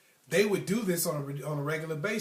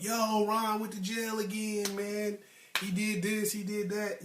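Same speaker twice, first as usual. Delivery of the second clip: higher-pitched drawn-out mock phone report; slow, raised-pitch retelling of a caller; imitated caller; 4 semitones higher, slower than usual. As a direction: imitate a friend calling with the same old news. Imitates friends phoning with news.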